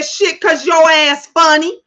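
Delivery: slow, laughing as she answers; retelling her laughing comeback; laughing retort. Retold or imitated. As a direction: tell him he's funny through a laugh. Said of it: "I said".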